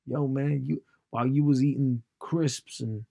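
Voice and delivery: imitation American bragging about abs; mock American accent, showing off. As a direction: put on an American gym-bro accent. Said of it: "wouldn't call them crisps in that accent".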